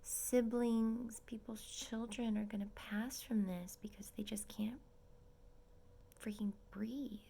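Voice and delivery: sad hushed whisper. Real, not acted. Mourning other families' losses in a sad whisper. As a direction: whisper it, heavy with sorrow.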